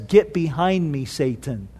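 low, quiet, grave reprimand; hushed severity, dropping away at the end; stern rebuke. Acted. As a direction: rebuke firmly without raising the voice. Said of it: "stern rebuke".

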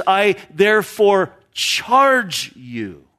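slow, grave command like an officer; solemn military order. Retold or imitated. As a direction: deliver it as a solemn charge, slowly. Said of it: "I'm giving you this solemn order".

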